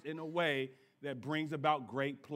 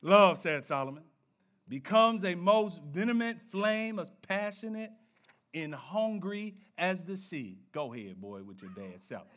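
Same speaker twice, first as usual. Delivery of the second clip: deep soul-crooner voice; 3 semitones lower than usual. Pretend. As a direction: playfully croon the verse. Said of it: "my Barry White voice on".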